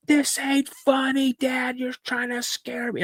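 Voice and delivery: very high, drawn-out upset yell; acted scream without full volume; retold scream. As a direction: wail it at dad, slow and high. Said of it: "I just start screaming".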